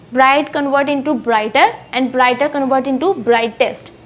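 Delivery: slow, deliberate reading of the word forms; teacher reading the adjective forms slowly; slow teaching example. Shown as a demonstration. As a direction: read each form slowly so the class can follow. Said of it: "superlative में हम इसको EST लगाकर blackest कर देंगे".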